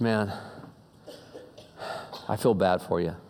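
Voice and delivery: low, soft, kindly offer; quiet, low-voiced compassion; compassionate rich man. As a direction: speak gently and low, as if to someone down on his luck. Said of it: "had real compassion for this guy".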